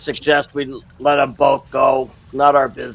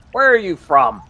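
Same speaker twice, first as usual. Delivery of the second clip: said louder so it carries past the others; louder second ask, a touch higher; repeated louder; 5 semitones higher than usual. Real, not acted. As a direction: raise the voice to be heard from the back. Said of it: "I was behind them. I was just not tall enough".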